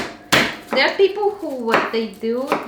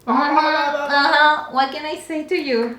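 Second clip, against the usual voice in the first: mouth open at dentist; 3 semitones higher, 4 dB louder than usual. Retold or imitated. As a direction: talk like your mouth is propped open. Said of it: "there with the mouth open".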